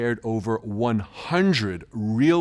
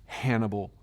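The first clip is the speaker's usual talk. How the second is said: hushed, sinister whisper; spooky whisper; 4 semitones lower, 7 dB quieter than usual. Acted. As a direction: breathe the name like a creepy secret. Punchline naming the host.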